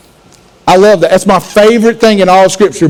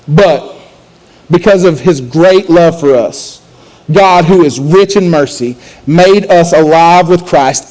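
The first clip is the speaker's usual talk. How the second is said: slow, solemn reading of scripture; 3 semitones lower, slower than usual. Acted. Pastor reading Ephesians to the congregation, slow and solemn. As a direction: let each phrase land slowly.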